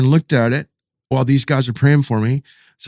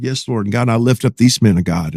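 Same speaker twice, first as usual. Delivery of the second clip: praying along, lightly acted; retold prayer; 2 semitones lower than usual. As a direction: imitate yourself easing into prayer. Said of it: "praying like that".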